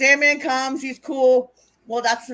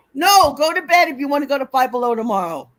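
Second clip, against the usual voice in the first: louder, insistent parental order; firm parent; 3 semitones higher, 7 dB louder than usual. Real, not acted. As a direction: lay down the bedtime rule. Insisting child goes to bed.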